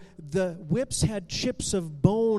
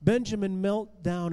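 plain reading voice

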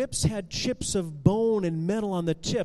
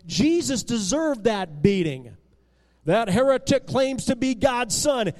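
raised-voice accusation; angry yell; 3 semitones higher, 5 dB louder than usual. A narrator's reading. Young man in the crowd shaking his fist, angry yelling. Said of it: "yelled a young man, shaking his fist".

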